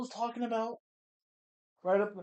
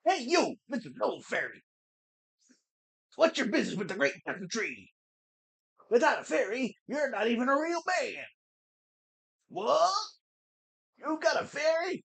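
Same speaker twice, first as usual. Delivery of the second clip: a badly faked Southern accent, pitched up at times; 5 semitones higher than usual. Gatekeeper Mido challenging a newcomer, bad Southern accent. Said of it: "I am Southern. Really bad, stereotypical Southern accent".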